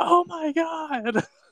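very high, frightened, terrified outburst and gasp. Teasing the other host by imitating how they went, imitating a terrified voice. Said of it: "You sounded so terrified. You went".

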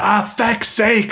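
mock exasperated, furious grumbling, pitched very high. Retelling how a man blocking the aisle reacts when asked to pass, imitating an angry man. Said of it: "he's so unbelievably angry at that".

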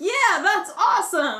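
cheerful, enthusiastic, loud, high friendly yell. Retelling calling out to a rollerblader in the road, re-enacting a yell. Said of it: "I wasn't yelling at him like to be mean".

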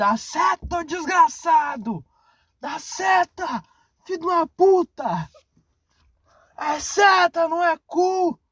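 acted, very high-pitched, drawn-out yelling. Retelling driving during burnout with head out the window, retelling shouting out car window. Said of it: "gritando com a cabeça pra fora assim".

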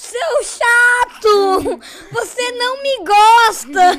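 very slow, high, drawn-out shout. Speaker retells what they shouted on stage at Lucas Neto, retelling a shout. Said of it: "Eu gritei assim no palco".

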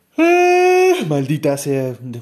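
very loud, very slow, yawning through the words. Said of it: "quiero dejar de bostezar".

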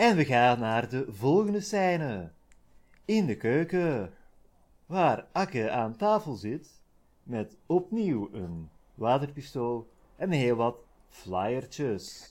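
polished radio presenter delivery, announcer voice. Narrating the next scene after announcing a switch to radio voice: radio voice. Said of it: "schakel ik enkel nog over op mijn radiostem".

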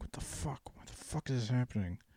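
frustrated, mumbled muttering under the breath. Stuck at a red light, the speaker retells their own mumbling to themselves. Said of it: "I'm like mumbling to myself".

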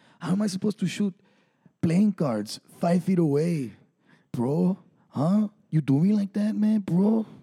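high-pitched put-on Mexican accent. Telling a story to co-hosts and voicing someone: mexican accent. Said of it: "I like how you went, like, for, like, Mexican".

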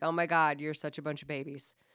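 ordinary talk, nothing marked

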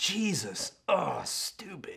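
mock scornful, fed-up, dismissive brush-off voice. Imagining the brother's reply when a Pharisee praises Jesus: eye-rolling James voice. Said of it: "James just kinda rolling his eyes and saying".

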